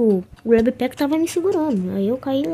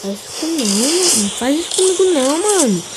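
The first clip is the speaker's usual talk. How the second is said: scared plea; 3 semitones higher, faster than usual. Real, not acted. After a scare, pleading.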